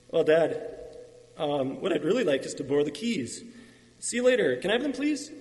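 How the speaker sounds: cajole Dad lightly, pitch rising on the plea; with a smile. Acted. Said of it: "He said with a smile".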